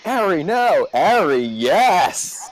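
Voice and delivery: high, loud hammed-up scolding; cartoon parody quote. Player quoting an abridged cartoon at Ari, mock scolding. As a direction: swoop up loudly in mock alarm. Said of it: "Dragon Ball Z Abridged reference".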